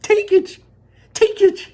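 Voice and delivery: high, loud excited shout. Acted. Wonka urges Charlie to grab the chocolate, shouting. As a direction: yell it in delight. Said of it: "shouted Mister Wonka".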